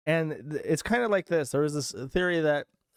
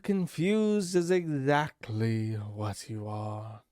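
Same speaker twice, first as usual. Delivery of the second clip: mock condescension; 5 semitones lower, much slower than usual. Mocking quote back at Patrick.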